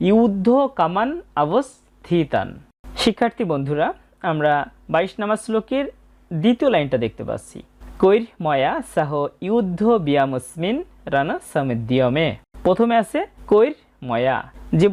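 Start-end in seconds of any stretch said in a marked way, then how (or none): 0.1-2.5 slow "যুদ্ধ কামান অবস্থিতান", word by word; model quarter-verse pronunciation. Shown as a demonstration. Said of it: "দ্বিতীয় চরণের উচ্চারণটা হবে". 8.0-12.3 "কৈর ময়া সহ" slowly, word by word; slow verse recitation. Shown as a demonstration. Teacher recites the second line.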